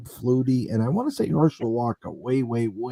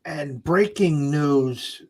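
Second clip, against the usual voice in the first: drawn-out mock breaking-news announcement; sarcastic; 3 semitones higher, much slower than usual. Real, not acted. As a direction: announce it slowly, as if it were big news. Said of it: "I'm saying this sarcastically".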